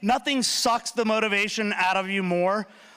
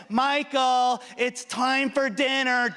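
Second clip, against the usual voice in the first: mom calling; 4 semitones higher, much slower than usual. Retold or imitated. Mom calling him to dinner.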